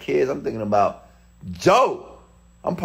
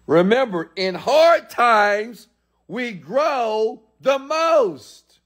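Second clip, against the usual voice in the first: mock sage; 11 semitones higher, 3 dB louder, much slower than usual. Motivational aside in odd voice.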